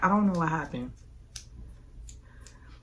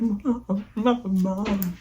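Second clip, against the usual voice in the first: calling out high, a little louder; calling mom; 4 semitones higher, 3 dB louder, much slower than usual. Retold or imitated. Seeing Mom pull up, calling out to her high. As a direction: call out to Mom as she pulls up.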